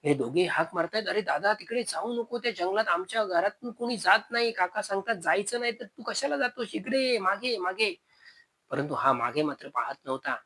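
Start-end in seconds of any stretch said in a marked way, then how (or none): 1.1-8.0 higher, urgent calling after him; pleading call. Acted. Younger brothers begging Sunil to come back, high pleading call. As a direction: call him back before he reaches the forest.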